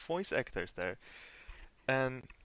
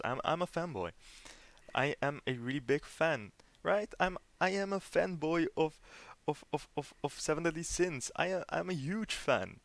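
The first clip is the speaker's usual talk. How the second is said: higher-pitched, insistent declaration; emphatic fanboy; 5 semitones higher than usual. Real, not acted. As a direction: insist on your fandom in a raised pitch. Insisting on being a huge fan.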